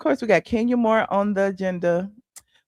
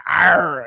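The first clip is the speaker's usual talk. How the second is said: fake engine growl; 7 semitones lower, 4 dB louder than usual. Shown as a demonstration. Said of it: "the little pretend".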